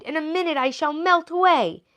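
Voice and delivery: high, shrill-voiced witch panic; panicked witch. A narrator's reading. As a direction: wail it as she shrinks. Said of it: "she screamed".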